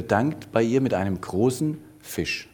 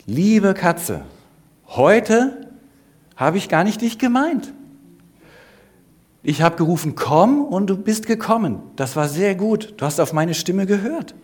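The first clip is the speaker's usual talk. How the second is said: louder, higher voice speaking to the cat for all to hear; 8 semitones higher, 5 dB louder than usual. A narrator's reading. Elisabeth addressing the cat loudly for the women, loud. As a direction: announce it loudly so the women overhear. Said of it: "zu der Katze ganz laut gesagt".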